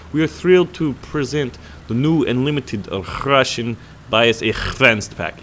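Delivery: a self-mocking, hammed-up Russian accent; terrible Russian accent. Gamer reads the Russian bias pack ad in a mock Russian accent. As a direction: read the promo like a bad Russian announcer. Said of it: "work on my best Russian accent, which is terrible".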